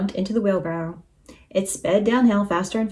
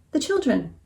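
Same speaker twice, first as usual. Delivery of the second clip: gentle, raised-pitch appeal; pleading; 5 semitones higher than usual. A narrator's reading. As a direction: appeal to the listener's kindness. Moo pleads with the rooster.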